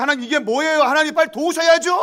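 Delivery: high shouted complaint to God; urgent demanding plea. Acted. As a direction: act out a believer crying out for help at once. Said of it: "하나님의 도움을 구하는 아주 거룩하고 경건한". (다급하게 따지며 외치는 소리)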